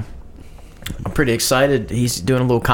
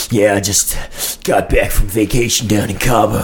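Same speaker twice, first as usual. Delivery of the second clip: mock Chase voice; 4 semitones lower than usual. Pretending to be Chase.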